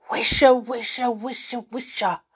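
loud, rustling stage whisper of trees. A narrator's reading. Trees whisper to the children, loud whisper. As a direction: whisper it loudly, like leaves rustling. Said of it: "whispered the trees loudly".

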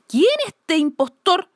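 high, loud roaring bear. Acted. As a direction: roar it out as the bear. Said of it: "rugió".

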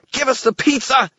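high, loud squeaky demand; fairy shout. A narrator's reading. Fairy demands pizza from wizard, high shout. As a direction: yell it high like a tiny fairy. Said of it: "Toot shouted".

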